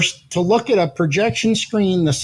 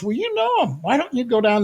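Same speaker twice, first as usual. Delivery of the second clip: put-on light girl voice; 6 semitones higher than usual. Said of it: "she goes".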